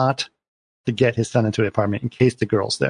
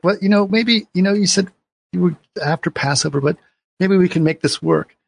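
higher-pitched, halting mock plea; tentative plea; 6 semitones higher than usual. Husband asking wife for another try, tentative and higher-pitched. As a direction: imitate a husband hedging toward reconciliation.

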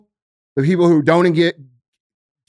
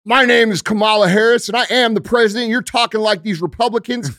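lampoon her as an outraged boss; mock pissed-off Kamala; 5 semitones higher than usual. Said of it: "all fucking pissed off and is like".

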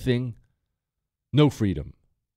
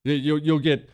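ordinary talk, nothing marked

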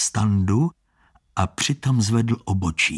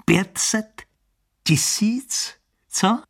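higher, needling hustler voice; pushy hustler; 7 semitones higher, slower than usual. Acted. Con man needling Standa to stake five hundred thousand. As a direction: goad him into a bigger bet.

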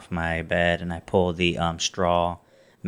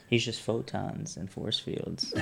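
laughing; 3 semitones higher, 8 dB quieter, slower than usual. Real, not acted. Joking between laughs.

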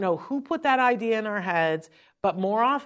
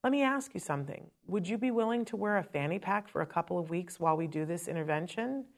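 calm and collected; 7 dB quieter than usual. Retold or imitated. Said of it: "so calm and cool and collected".

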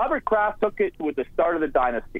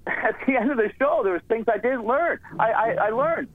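higher, mock-earnest sarcastic praise; 4 semitones higher than usual. Real, not acted. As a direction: lay the sarcasm on, slowing for effect. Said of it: "I'm sensing a little sarcasm here".

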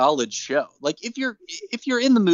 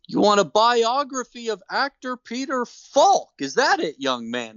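Santa voice; 8 semitones higher than usual. Retold or imitated. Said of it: "he's like".

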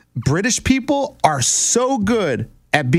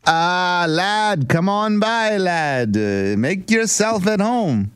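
bad British accent; 3 semitones higher, much slower than usual. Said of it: "I think they say lad".

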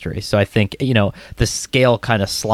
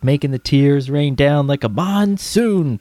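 slow, higher mock old English delivery; hammed-up old English accent, drawn out; 4 semitones higher than usual. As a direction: imitate an olde English singer from a commercial. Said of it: "like, a really old English voice".

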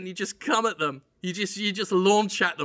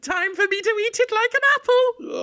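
high, louder goblin voice; 5 dB louder than usual. Pretend. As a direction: gloat over the onion like a goblin. Goblin voice continues.

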